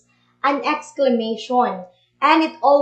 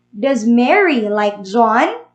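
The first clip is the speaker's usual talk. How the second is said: "John" lifted at the end as a yes-no question; slow question with the voice rising on "John"; rising intonation; 2 semitones lower than usual. Shown as a demonstration. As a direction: ask it slowly, going up on "John". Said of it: "it has a rising intonation".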